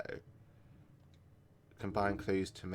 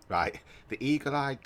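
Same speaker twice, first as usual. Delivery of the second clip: laughing, higher and louder restart; 8 semitones higher, 6 dB louder than usual. Real, not acted. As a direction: break into a laugh mid-line.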